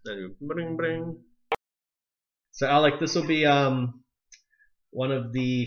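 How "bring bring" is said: phone ring noise. Shown as a demonstration. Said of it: "we could combine them".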